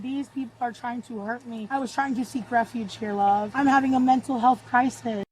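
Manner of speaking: whiny victim voice. Real, not acted. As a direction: play the helpless victim. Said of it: "you hear the change?".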